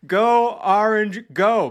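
high, loud, drawn-out rooting cry; loud team cheer. Real, not acted. Fan roots for Syracuse Orange, loud slow cheer. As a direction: cheer them on at full voice.

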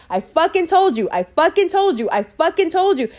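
imitating her own frantic I told you so; exasperated repeating. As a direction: rub it in over and over. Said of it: "I kept saying".

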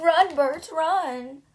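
loud, high cry to run; urgent shout. Acted. Mother shouting at Bert to run, loud and high. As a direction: yell at him to flee.

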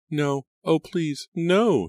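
a rising, desperate shriek of denial. A narrator's reading. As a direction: shriek the protest in horror. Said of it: "she shrieked".

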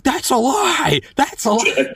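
high-pitched mock yell into a mic; shouted accusation, acted out; retold yelling. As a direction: imitate an outraged man yelling, voice pushed way up. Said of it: "and starts yelling".

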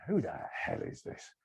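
slow whispered puzzlement; muttered inner thought. Retold or imitated. Cabbie privately wondering who the passenger is, whispered. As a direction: whisper it to yourself, baffled. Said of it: "you know what they're thinking".

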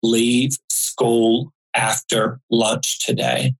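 slow, measured calm voice. Retold or imitated. Mysterious man's voice warning a child on a bus, very calm. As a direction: space the words out evenly and calmly. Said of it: "a man's voice very calmly said".

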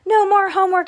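high, loud rallying cry; protest yell. A narrator's reading. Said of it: "Everybody had started yelling".

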